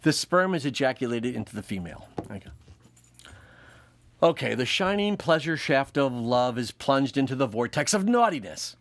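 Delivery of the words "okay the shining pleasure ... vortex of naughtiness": mock romantic. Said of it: "Is that better?".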